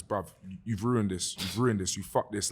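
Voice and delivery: retold self-reproach. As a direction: quietly tell yourself off, pitched low. His thoughts on stage while failing.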